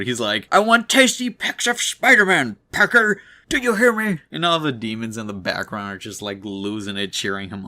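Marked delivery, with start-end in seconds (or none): 0.5-4.2 high, loud yell while sobbing; crying angry yell. Retold or imitated. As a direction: scream the demand through tears. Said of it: "like, yelling, trying to be angry, while also crying his eyes out".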